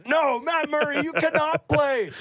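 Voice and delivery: high, squeaky mock official shutting the door; mocking the league telling the Leafs no; mock officious league voice.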